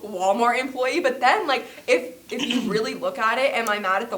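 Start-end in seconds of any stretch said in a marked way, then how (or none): 0.0-1.0 louder, slow, laughing disbelief; laughing at herself. Retold or imitated. Telling her friend, laughing at her own anger. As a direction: laugh through the confession.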